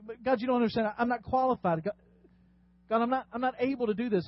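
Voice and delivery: a nervous Moses begging God to pick someone else; flustered Moses. Acted. Pastor voicing Moses as a flustered, stammering pleader.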